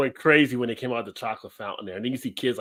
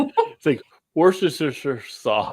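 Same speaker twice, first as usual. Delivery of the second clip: laughing, slow over-pronounced; 4 semitones higher, 3 dB louder, much slower than usual. Shown as a demonstration. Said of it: "I don't know how to say it".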